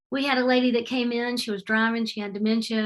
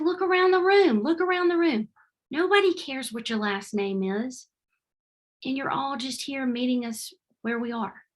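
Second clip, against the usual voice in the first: feisty old lady's mock lecture; emphatic retort; 3 semitones higher than usual. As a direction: insist the obvious to a puzzled friend. Old lady explains, emphatic.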